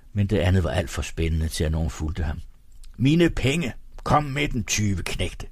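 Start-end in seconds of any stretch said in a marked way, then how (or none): 3.0-5.5 high, indignant acted outcry; angry demand. A narrator's reading. Egholm demands money from the thieves, high and angry. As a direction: demand it back in raised outrage.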